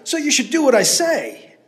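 high; calling. Acted. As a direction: call it up. Landowner calling up.

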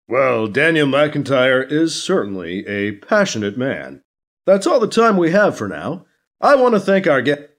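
brisk, lightly voiced host; awkward anchor wrap-up. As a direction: hurry off the air.

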